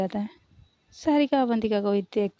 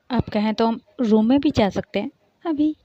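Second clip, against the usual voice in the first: louder, eager teasing offer; louder playful tease; bold flirt; 7 dB louder than usual. Acted. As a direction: push the cheeky suggestion. Sarika flirts boldly.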